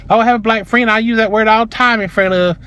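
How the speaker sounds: high-pitched mimicry of the woman; mocking excuse. Woman defending her word to customer, mocking imitation. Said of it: "other typical Southern bullshit".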